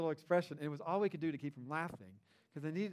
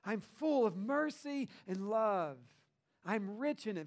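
God declaring mercy; 3 semitones higher, slower than usual. Retold or imitated. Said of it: "That's the way, how he says it".

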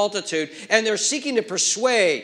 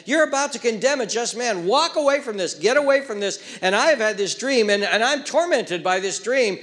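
higher, urgent warning from the wife; pleading wife; 3 semitones higher than usual. Acted. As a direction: beg him to walk away, a touch of dread. Voices wife's urgent warning.

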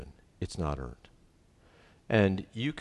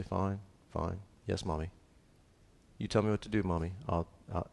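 a hint of a mopey little boy, softer; sulky boy-husband; 7 dB quieter than usual. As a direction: whine it quietly like a scolded child. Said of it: "He'll say".

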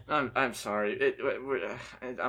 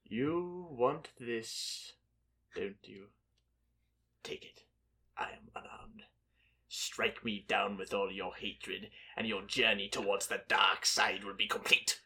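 tempting devilish whisper; 4 semitones lower, 8 dB quieter than usual. Acted. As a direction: whisper it like a Sith lord luring. Quote contest, Sith temptation line.

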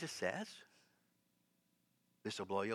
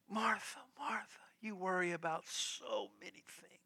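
softer, gently reproachful Jesus; loving reproach; 4 semitones higher, 7 dB quieter than usual. Retold or imitated. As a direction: chide tenderly, with a drop in volume. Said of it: "he said it with such love and such power".

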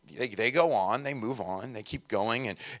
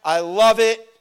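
loud, high cheer of approval; mock-casual praise from Jesus; enthusiastic; 6 semitones higher, 7 dB louder, much slower than usual. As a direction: hype them up like a proud coach. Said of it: "And Jesus is like".

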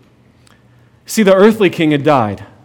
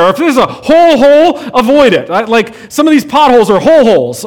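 playful emphasis; 5 semitones higher than usual. Real, not acted. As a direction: make the "hole hole" joke pop. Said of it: "joking about pit pits".

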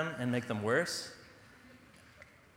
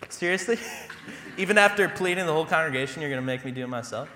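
mock disbelief; 3 semitones higher, 3 dB louder, faster than usual. Mock protest to Eric.

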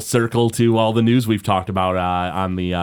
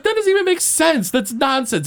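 mild mock yell. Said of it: "she's, like, yelling at him".

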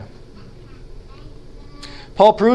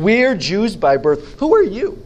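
mock taunt; 2 semitones higher than usual. Opponents taunting Gentile Christians.

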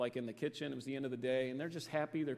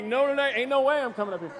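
reluctant volunteer; 6 semitones higher, 10 dB louder, faster than usual. Retold or imitated. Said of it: "He's like".

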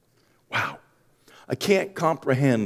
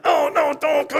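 reluctant; 4 dB louder than usual. Retold or imitated. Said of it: "you're gonna be like".

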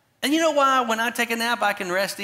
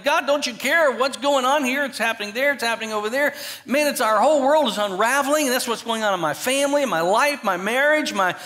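panicked prayer; 5 semitones higher than usual. Retold or imitated. Believers crying out to God in their storm, mock panicked plea. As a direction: plead with God like everything is falling apart. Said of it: "And we're panicked".

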